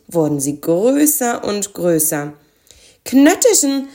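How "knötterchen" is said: raised, louder character cry; calling out. A narrator's reading. Spekulatius as the packages grow bigger, calling out. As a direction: call the name out in alarm. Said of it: "rief Spekulatius".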